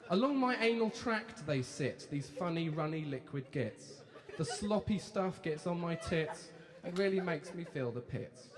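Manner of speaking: slow, loud, hammed-up poem recital; mock-solemn reading of a rude poem. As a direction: declaim the verse slowly and grandly.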